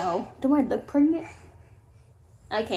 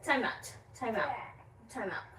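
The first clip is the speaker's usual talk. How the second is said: fading repeat; 6 semitones lower, 12 dB quieter than usual. Real, not acted.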